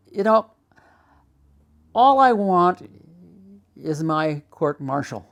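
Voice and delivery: impassioned re-enacted appeal; retold hysterical plea. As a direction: retell a desperate demand, leaning hard on the opening. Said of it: "just got very hysterical".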